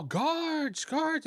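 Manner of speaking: high-pitched mock cry for help; calling for guards. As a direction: call down the hall in a woman's high voice. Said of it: "you hear her running down the hall".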